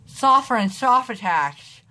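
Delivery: lisping through a retainer; slurred speech with a retainer; wearing a retainer. Shown as a demonstration. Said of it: "hear me talk with my retainer on".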